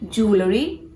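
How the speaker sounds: "jewelry" as JOO-luh-ree, rising; "jewelry" with the middle reduced; correct jewelry. Shown as a demonstration.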